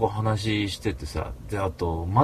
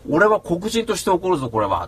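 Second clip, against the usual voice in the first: raised, heated declaration; retold anger; 5 semitones higher than usual. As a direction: declare it defiantly.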